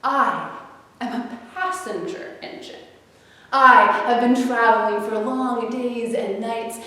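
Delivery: mild haughty dismissal; a busy engine brushing the toys off; scoffing. Acted. The shiny engine snubbing the toys, mildly scoffing. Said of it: "the new shiny engine scoffed".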